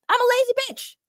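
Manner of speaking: playful self-mocking repeat; mock silly voice. Shown as a demonstration. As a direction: say it again in a goofy cartoon voice. Repeated in a put-on voice.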